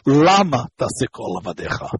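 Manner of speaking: Lama opening as LA-ma; first-syllable stress. Shown as a demonstration. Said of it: "the first syllable".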